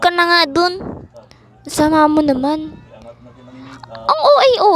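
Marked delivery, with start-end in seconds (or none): 3.9-4.7 laughing. Acted. Teasing remark at sleepy sibling.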